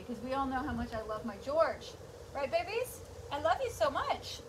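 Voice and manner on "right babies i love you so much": doggy talk. Acted. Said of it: "I'm talking to the dog right now".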